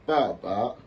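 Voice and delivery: papa ending on a rise; papa with a rising tone; second tone. Shown as a demonstration. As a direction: lift the last "pa" of "papa" upward. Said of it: "je n'ai pas dit".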